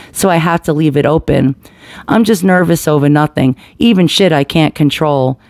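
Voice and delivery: steady, earnest poem reading; spoken word reading. Acted. Reading a spoken word piece about anxiety to viewers, earnest. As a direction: read it like a personal confession.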